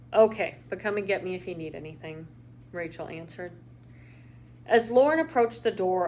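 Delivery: steady read-aloud narration; calm storyteller reading; story narration. A narrator's reading. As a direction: read the chapter to listeners. Reads a novel chapter aloud.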